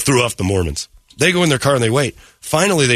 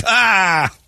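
high, drawn-out "ahh" of frustration; exasperated cry; 9 semitones higher than usual. Retold or imitated. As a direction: cry out at being trapped. Retelling being trapped at gate.

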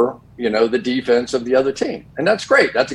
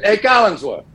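heckling fan; 8 semitones higher than usual. Retold or imitated. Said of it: "this guy turns around and goes".

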